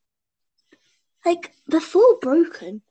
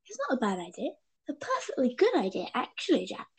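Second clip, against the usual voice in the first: softly seductive Yanto; 8 dB quieter, faster than usual. Retold or imitated. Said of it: "Yanto's just like".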